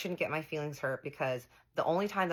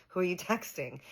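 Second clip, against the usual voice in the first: laughing; 4 semitones higher than usual. Retold or imitated. Repeating question while laughing.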